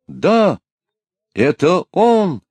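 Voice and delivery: high, loud excited cry; shouting from the ranks. A narrator's reading. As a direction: call out in recognition. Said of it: "раздался из рядов солдат чей-то голос".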